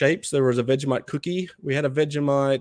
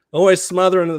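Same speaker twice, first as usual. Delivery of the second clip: mock outrage; 6 semitones higher, 7 dB louder, faster than usual. Real, not acted. Teasing Americans about Vegemite.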